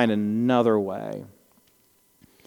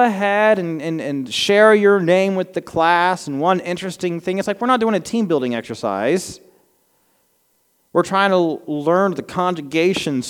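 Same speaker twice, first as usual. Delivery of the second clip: higher and louder mocking the icebreaker; playful mock teacher voice; mock professor; 6 semitones higher, 3 dB louder than usual. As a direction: lampoon the classroom ritual.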